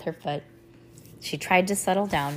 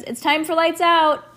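loud, high sing-out down the stairs; calling out; 10 semitones higher, 7 dB louder than usual. A narrator's reading. Mom announcing lights out to the girls, calling out. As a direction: project it like a parent calling bedtime. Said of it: "Mom called from the top of the stairs".

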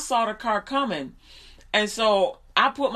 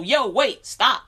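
sharp, louder call to halt; quick raised-voice warning; urgent warning; 5 dB louder, slower than usual. Acted. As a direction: call out to stop someone. Acting out warning someone of car.

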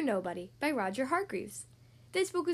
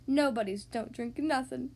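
slow, mildly doleful voice; lightly voiced gloomy refusal, dropping the g in "nothin'"; glum character. Mister Nobody declining a cup of tea, glumly.

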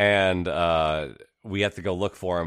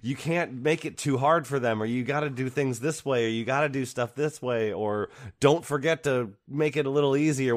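higher-pitched mock fretting committee; raised-pitch, insistent mock fussing; nagging adults; 6 semitones higher than usual. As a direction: imitate anxious bosses piling on demands. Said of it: "all the adults in the room are like".

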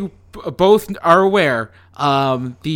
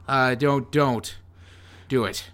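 fading, softer ghostly plea; 2 semitones lower, 4 dB quieter, slower than usual. Acted. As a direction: let each don't drift away. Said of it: "ghostly voices".

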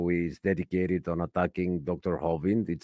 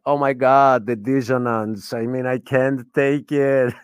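mildly raised, exasperated outburst; retold shouting; 3 semitones higher, 5 dB louder than usual. Retelling their outburst at a relentless heckler to co-hosts, mock shouting. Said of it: "So I started shouting".

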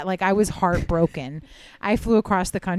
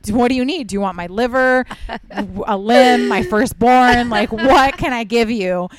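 rising, louder eager pleading; over-eager begging; 2 semitones higher, 5 dB louder than usual. Retold or imitated. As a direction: offer everything in a rush of mock desperation. Retold eager plea for ticket.

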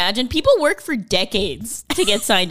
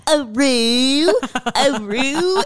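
a hint of a howl, a bit higher; wolf voice; 5 semitones higher, 3 dB louder, much slower than usual. Shown as a demonstration. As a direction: lightly howl like the dog. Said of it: "it's like this".

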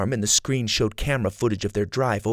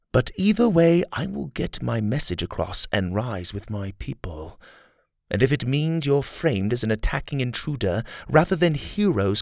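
lightly voiced villain threat; Kai, cold threat; 4 semitones higher than usual. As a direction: threaten calmly, barely caring.

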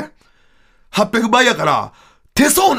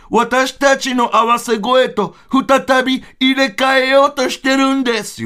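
a bit higher, slow and careful; lightly voiced Volkova; 4 semitones higher, slower than usual. The other duo singer explaining the swap, slow and a bit higher. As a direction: explain it patiently, word by word.

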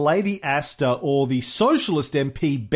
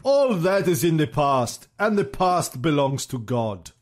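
Pavlov; 2 semitones higher than usual. Acted. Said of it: "said interpreter Pavlov".

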